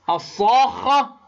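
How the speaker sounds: الصاخة with the long alif held and the خ doubled; elongated tajweed madd. Shown as a demonstration. Teacher drawing out الصاخة for students. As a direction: stretch the alif of الصاخة, then stress the doubled خ. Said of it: "انظر إلى كلمة".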